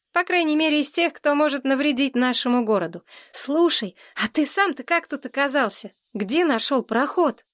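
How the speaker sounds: put-on inquiring fair-haired boy.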